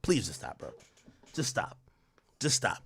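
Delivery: soft, tired begging; quiet pleading. Real, not acted. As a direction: drop the voice and beg. Weary pleading after the rant.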